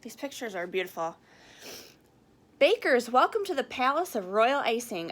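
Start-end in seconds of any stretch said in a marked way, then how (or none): 2.6-5.1 loud, bright host welcome; announcer voice. Acted. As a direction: announce it to the room. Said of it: "announced the kitchen director".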